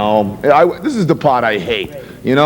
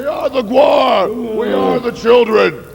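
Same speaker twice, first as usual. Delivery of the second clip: shouting; 8 semitones higher than usual. Acted. Band members shouting their name.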